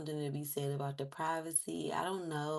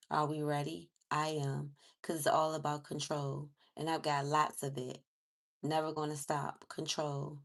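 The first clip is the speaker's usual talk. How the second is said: lyric reading. Acted. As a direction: read the lyrics out steadily. Reads lyrics off screen.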